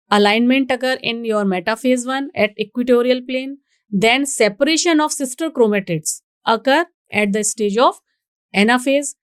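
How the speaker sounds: slow, deliberate reading from the slide; teacher dictating notes slowly; slow dictation reading. Shown as a demonstration. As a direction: read it out word by word for students to note. Reads slide text slowly.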